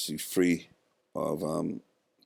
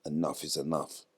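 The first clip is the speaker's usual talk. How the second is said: quiet firm resolve; 2 semitones lower, 6 dB quieter than usual. Retold or imitated. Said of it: "I said".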